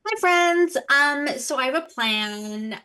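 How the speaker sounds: a hint of a brisk stage manager; hurried backstage stage manager voice. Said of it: "this is my stage manager voice".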